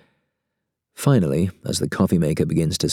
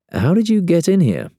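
higher, louder alarmed question; surprised; 12 semitones higher, 4 dB louder than usual. Acted. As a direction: blurt it out startled. Startled question.

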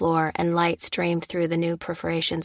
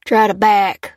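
rough shouted order from a doorway; gruff yell; 3 semitones higher, 7 dB louder, slower than usual. A narrator's reading. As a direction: bark it gruffly. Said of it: "yelled the gruff voice".

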